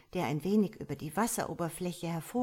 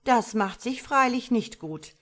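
pondering starling, pitched up and loud; thoughtful; 6 semitones higher, 7 dB louder than usual. A narrator's reading. Starling concedes to the frog mother, thoughtful. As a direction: weigh it up, conceding. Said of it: "erwiderte der Star nachdenklich".

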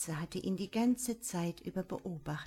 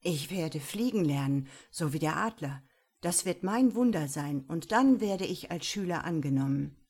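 put-on determined young monk; 5 dB louder than usual. Monk's determined resolve.

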